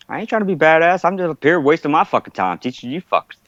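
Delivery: high-pitched exasperated retort; retold telling-off. Instructor tells off the class.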